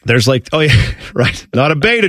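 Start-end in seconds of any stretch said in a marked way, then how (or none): 1.5-2.1 put-on Jersey tough talk; broad New Jersey vowels; New Jersey accent. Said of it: "my horrible New Jersey accent".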